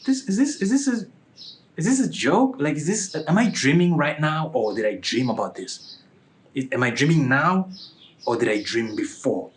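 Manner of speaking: retold bewilderment, starting high; confused. Man wondering if he is dreaming, confused. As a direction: puzzle it out aloud, dropping from high pitch. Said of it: "So I'm sort of, like, confused".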